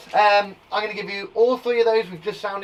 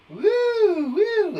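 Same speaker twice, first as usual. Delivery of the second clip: excited woo; 5 dB louder than usual. Real, not acted. Reacting to the heat.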